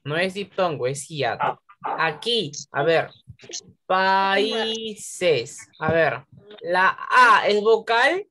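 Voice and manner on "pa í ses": PAÍSES stretched as pa-í-ses; syllable by syllable. Shown as a demonstration. Teacher presenting the next word to pupils, syllable by syllable. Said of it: "sepáralas en sílabas".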